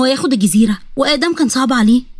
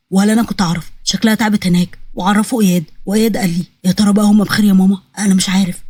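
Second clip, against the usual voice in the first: low, worried male figure; a hint of a dejected prince; lightly voiced despondent son; 5 semitones lower than usual. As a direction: confide in your mother, pitched down. Narrator voices despondent Adam.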